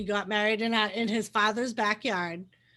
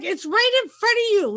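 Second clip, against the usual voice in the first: higher, louder exasperated call; pitched-up impatient retold remark; impatient pointing out; 9 semitones higher, 5 dB louder than usual. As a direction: point out the obvious, mildly fed up. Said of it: "And I'm like".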